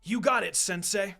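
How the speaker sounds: eager reply. Acted.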